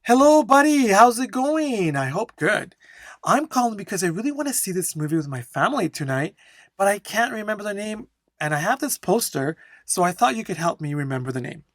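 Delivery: flowing model answer. Shown as a demonstration. Teacher demonstrating a one-minute exam answer, flowing and animated. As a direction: perform a friendly phone call in one brisk, intonated flow. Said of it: "focus on my flow and intonation".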